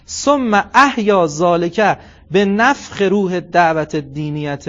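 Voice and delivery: slow, measured Arabic recitation, word by word. Acted. Preacher reading the Arabic text aloud, slow and measured. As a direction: weigh each Arabic word as it is read.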